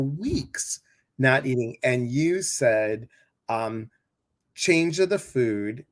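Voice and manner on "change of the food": put-on Italian accent. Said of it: "you were talking in that Italian voice".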